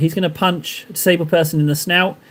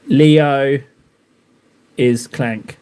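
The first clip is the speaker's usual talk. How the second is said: Clanker voice; much slower than usual. Pretend. Painter declaring Leo is Clank, in a mock Clanker voice. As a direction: say it like a clunky robot. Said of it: "don't know why I said it like that".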